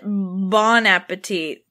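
"Bon Appetit" said slowly, as the host says it; host's pronunciation. Retold or imitated. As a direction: imitate his slow "Bon Appetit". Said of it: "He calls it".

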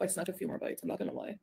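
drops to a whisper for the confession; hushed confession. Real, not acted. Streamer admitting to her chat she sneaked bites, whispered. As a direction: whisper it like a guilty secret.

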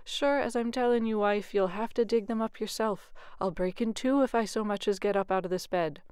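milk the sore back to escape work; whining. Acted. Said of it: "Jamie would whine".

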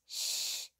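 whispered hush; breathy calming shush; soft shush. A narrator's reading. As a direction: hush the creature gently. Calming a scared monster.

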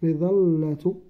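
مظلة stretched very slowly, syllable by syllable; slowly dictating مظلة to first graders; drawn-out dictation. Shown as a demonstration. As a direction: stretch out مظلة for young pupils to write. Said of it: "تاء مربوطة هكذا في الأخير".

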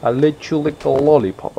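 put-on high, comic Russian accent; sing-song lines in a put-on Russian accent. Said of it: "Russian accent".

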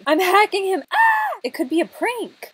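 high, loud frantic outburst; hammed-up panic ending in a shriek; mock hysteria. Reads out chat accusation in mock panic.

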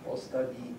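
"Ostavi" in a rhythm with two stresses. Shown as a demonstration. Lecturer explaining the rhythm of a command, "Ostavi" double-stressed. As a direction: beat out both stresses of "Ostavi", softly. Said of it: "you get this kind of rhythm".

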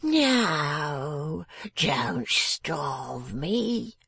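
slow, drawn-out whimper; whimpering plea. A narrator's reading. Father begs Miss Wren not to starve him, whimpering. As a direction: beg pitifully, stretching the words. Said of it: "he urged, whimpering".

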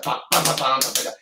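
punchy vocal imitation of thrash guitar; imitated metal riff. Musician imitates the band opening a song, punchy riff sounds. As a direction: bam out a riff in quick, hard bursts. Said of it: "they start a song".

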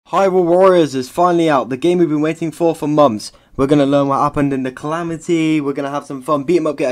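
loud and eager, selling the game; mock hype. Youtuber hyping the game to viewers, loud and eager. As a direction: pump it up like a trailer.

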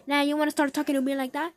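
rising challenge on wanna; challenging comeback. Acted. Taunting a hater, challenging and rising.

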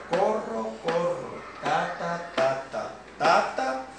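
"corro, corro, ta, ta" in steady two-beat pairs; rhythmic demo. Shown as a demonstration. Teacher sounding out the written eighth notes, rhythmic demo. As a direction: stress the first beat of each "corro" and "ta, ta". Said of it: "esto aquí es como si fuera".

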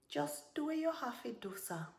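high opening dropping to a curt end; spat back. A narrator's reading. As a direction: retort with contempt. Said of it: "Serena spat back".

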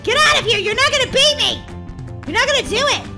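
high, loud racing taunt; competitive yell. Real, not acted. Gamer to rival racer, competitive yell. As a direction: shout down the rival rider.

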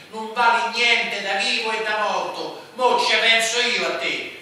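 beside himself with rage; screeching in rage. A narrator's reading. Romuletto threatening the boy, beside himself with rage. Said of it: "strillò Romuletto fuori di sé dalla rabbia".

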